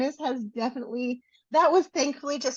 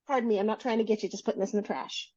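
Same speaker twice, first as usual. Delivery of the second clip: rushed apology; 3 dB quieter, faster than usual. Retold or imitated. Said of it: "I said it four times".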